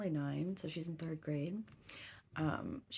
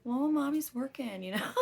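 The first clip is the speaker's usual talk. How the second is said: raised, high and loud, fast in the middle; loud mock reply; 7 semitones higher, 6 dB louder than usual. Mom telling her daughter she's working, loud and exasperated. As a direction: belt it out half laughing, half fed up.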